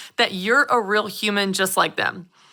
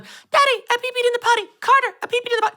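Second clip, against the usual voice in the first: put-on high, excited little boy voice, much higher; proud toddler; faster than usual. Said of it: "He went around the whole house going".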